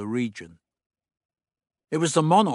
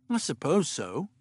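pouting; 4 semitones higher than usual. Acted. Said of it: "she said sulkily".

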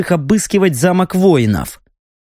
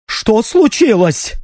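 gruff; 6 semitones higher, slower than usual. A narrator's reading. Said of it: "грубо отозвался Стриж".

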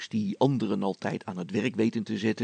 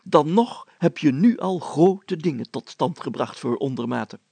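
the mayor addressing villagers, raised and louder; mayor holding forth, louder and higher; pompous mayor; 5 semitones higher, 7 dB louder than usual. Acted. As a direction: play a self-important village mayor.

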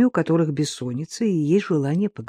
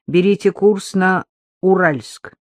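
radio dispatcher voice; 2 semitones higher, 3 dB louder, slower than usual. Acted. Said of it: "раздался голос".

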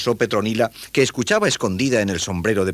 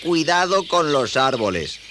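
put-on slow, high boy voice reading a sign; painstaking, higher-pitched reading; careful reading out; 8 semitones higher, 3 dB louder, slower than usual. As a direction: read it out slowly, word by word. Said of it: "leyó detenidamente el cartel".

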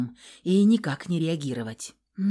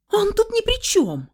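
very high, loud cry; desperate shout; 6 dB louder than usual. A narrator's reading. Heroine defending her husband, high desperate shout.

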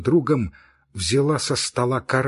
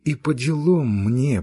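louder, deliberate repeat of the phrase; sharper repeat; 2 semitones higher, 3 dB louder, slower than usual. Acted. Girl to her friend, louder bitter repeat. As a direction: say it again, pressing it home. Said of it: "быстро заговорила Кити".

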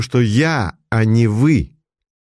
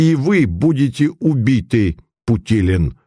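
hoarse, wheezing threat; 4 semitones higher than usual. Acted. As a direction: rasp the words out hoarsely. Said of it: "прохрипел Савин".

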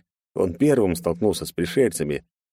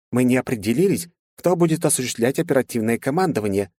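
general voice; 5 semitones higher than usual. Acted.

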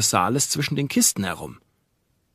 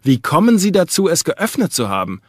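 a sharp, demanding challenge, higher and louder; sharp question; 6 semitones higher, 5 dB louder than usual. A narrator's reading. Lawyer sharply questioning the servant, demanding. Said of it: "und dann scharf".

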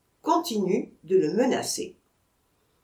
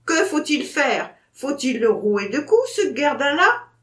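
loud, higher, exasperated question; barely holding back from thrashing him; angry demand; 5 semitones higher, 5 dB louder than usual. Acted. Vatrin asking the narrator whether to beat the dog, loud and angry.

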